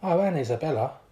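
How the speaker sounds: loud, high call out; hollering. Acted. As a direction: holler it across the room. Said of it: "hollered Scott".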